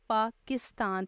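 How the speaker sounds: पाकिस्तान in measured syllables, leaning on किस; पाकिस्तान lightly split, middle syllable marked; stress on किस. Shown as a demonstration. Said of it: "किस syllable के ऊपर ज़्यादा जोर".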